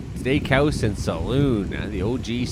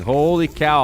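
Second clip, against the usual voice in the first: surprised exclamation; 6 semitones higher, 5 dB louder, slower than usual. Real, not acted. Ice heaving.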